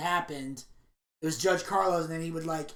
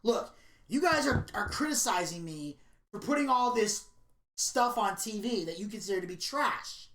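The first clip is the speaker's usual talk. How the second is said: indignant Jerry; 3 semitones higher than usual. Retold or imitated. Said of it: "bothering them the most was".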